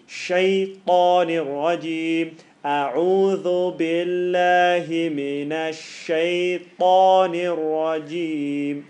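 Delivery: slow, drawn-out chanted recitation; Quranic recitation. Shown as a demonstration. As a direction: recite each word slowly and clearly. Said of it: "the lessons to learn".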